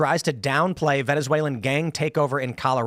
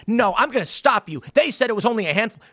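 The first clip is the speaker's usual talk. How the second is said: mocking imitation; 5 semitones higher than usual. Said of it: "Why the indignation?".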